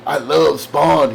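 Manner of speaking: "love" drawn out slowly in "I love Spawn"; imitating gushing fan. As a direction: linger on "love" like a devoted fan. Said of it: "And he goes".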